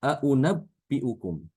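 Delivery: aunabbiukum stretched slowly with the second hamza toward w; slow recitation demo. Shown as a demonstration. Teacher slowly modelling aunabbiukum as an example. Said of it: "Contohnya seperti aunabbiukum".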